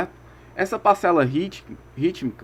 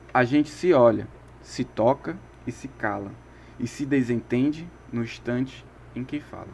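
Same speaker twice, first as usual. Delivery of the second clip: measured reading of lyric lines, unhurried at the opening; poem recitation; 3 semitones lower than usual. Shown as a demonstration. Teacher reciting a singer's lyrics to the class as a poem. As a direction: recite the verses as poetry, not chat. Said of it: "Vamos lá, vou recitar".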